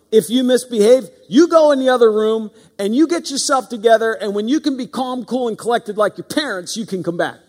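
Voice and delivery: hint of a lecturing parent laying down the rule; playfully parroting a parent's time-out speech; mock strict parent.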